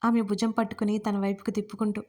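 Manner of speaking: ordinary delivery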